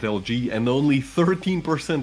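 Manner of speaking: lively match-end call, stretching the final figure; live esports play-by-play. Real, not acted. Caster summing up Stone's bad finish, lively play-by-play. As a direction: call the poor closing stats with energy.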